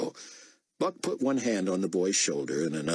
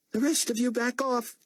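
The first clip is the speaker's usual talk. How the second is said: much higher voice, firm command; stern order. A narrator's reading. Athenas ordering the prisoners back, stern. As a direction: push the crowd back.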